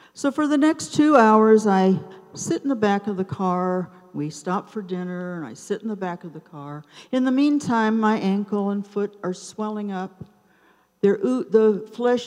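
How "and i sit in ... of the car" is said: quicker, softer, rueful echo; wry repetition. Real, not acted. Stuck in the car again at dinner: fast, softer rueful echo. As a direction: toss it off wryly, fast and quiet. Repeated line for emphasis.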